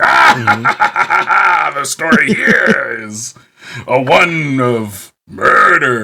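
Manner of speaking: very slow, every word drawn out, horror host voice. Imagining a horror villain hosting a kids' TV show: Freddy Krueger voice. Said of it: "He's like".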